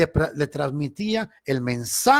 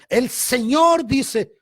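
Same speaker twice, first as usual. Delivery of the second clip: slow, higher, theatrical prophecy voice; mocking trembling prophet; 8 semitones higher, much slower than usual. Mocking false prophets in church, slow hammed-up pronouncement. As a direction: ham up a self-important prophet. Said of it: "y empiezan a temblar y dicen".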